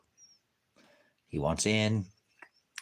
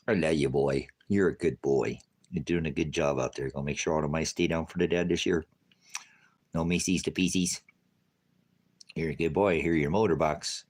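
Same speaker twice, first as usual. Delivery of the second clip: tender pet talk; 5 semitones lower than usual. Real, not acted. Cooing to cat.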